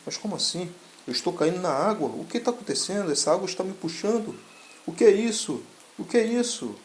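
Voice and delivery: high, rising panicked questions. Acted. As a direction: pitch climbs as he is pulled under. Dragged underwater, panicking.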